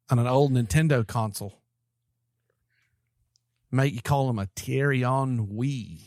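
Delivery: a hint of Aussie bloke closing the show; Aussie accent. Wrapping up the podcast for his friends in a light mock Aussie accent. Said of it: "Only if you wrap it up in an Aussie accent".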